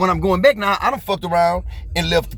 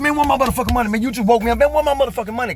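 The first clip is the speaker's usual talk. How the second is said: higher, pressing mock-angry demand; 6 semitones higher, faster than usual. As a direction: push harder each time, half-acted. Repeated angry demand for money.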